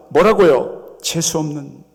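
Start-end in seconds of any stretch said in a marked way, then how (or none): 1.0-1.8 scolding crowd. Acted. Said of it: "꾸짖습니다".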